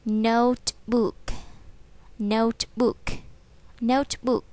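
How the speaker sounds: "notebook" drawn out slowly; slow model word. Shown as a demonstration. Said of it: "mình sẽ nói là".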